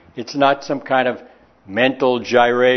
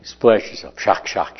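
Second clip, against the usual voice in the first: great aunt's coaxing; 6 semitones lower than usual. Retold or imitated. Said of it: "my great aunt Rosie, she would say".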